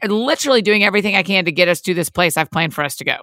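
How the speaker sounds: mildly exasperated, hurried retort; mock impatience, rushing through the protest; losing patience. Driver to impatient kids in the car, losing patience. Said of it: "I'm losing my patience".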